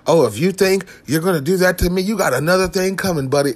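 mock condescending warning. Comic acting out someone whose issue was taken away, condescending. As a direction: talk down to a so-called buddy. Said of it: "in a condescending way".

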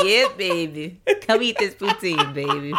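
playful Louisiana come-on, laughing through it; hammed-up Louisiana sweet talk; Louisiana accent. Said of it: "That Louisiana, like".

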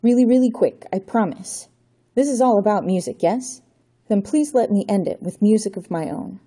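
Johnny begging the Count for time; pleading. Acted. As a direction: beg him to stop. Johnny pleads for last request.

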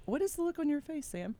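usual speaking voice

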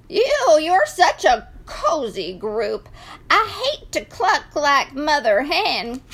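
lightly voiced scolding rooster; a hint of a fussy rooster; cocky rooster. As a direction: start high on the first word, then chide.

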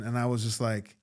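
normal talking voice

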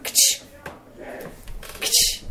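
clicked mock shutter sound; camera shutter noise. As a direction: imitate a phone camera click. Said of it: "I'd just hear".

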